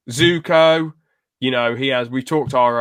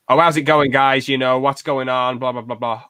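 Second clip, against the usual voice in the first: bad American accent. Shown as a demonstration. Podcast host demos how easy an American accent is, in a bad American accent. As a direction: toss off a throwaway American YouTuber greeting in an American accent. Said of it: "That's not the best American accent".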